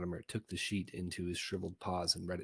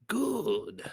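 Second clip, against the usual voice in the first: a much higher, louder gleeful "Good"; sly satisfaction; 8 dB louder than usual. Acted. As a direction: pounce on it with glee. Sineas pleased by answer.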